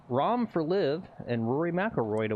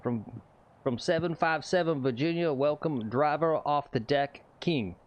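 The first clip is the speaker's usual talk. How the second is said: golf tee announcer; 2 semitones higher than usual. Pretend. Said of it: "Or is it better to actually say it?".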